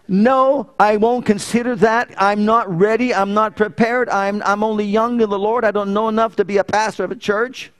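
high, insistent objection; protesting refusal. Retold or imitated. Acts out his refusal to God.

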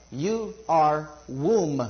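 "womb" stretched long and slow; stress on womb. Shown as a demonstration. Preacher explaining the word woman, drawing out "womb". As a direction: draw out "womb" to land the meaning. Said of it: "W O M B".

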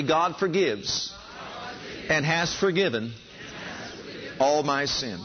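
"God forgives" drawn out slowly with long pauses; slow call and response. Shown as a demonstration. Preacher leading the congregation to repeat the line, slowly. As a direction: lead them through it word by word. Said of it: "Say that with me".

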